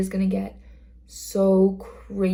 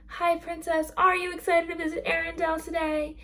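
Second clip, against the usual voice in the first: put-on much higher, sing-song voice for a little girl; sweet princess greeting; 9 semitones higher than usual. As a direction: greet a small princess like she's royalty. Greeting girl in Elsa dress.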